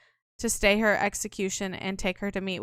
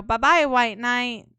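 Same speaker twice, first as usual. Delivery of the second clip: slow taunt; 5 dB louder, slower than usual. Acted. Ron taunts locked-up Leo.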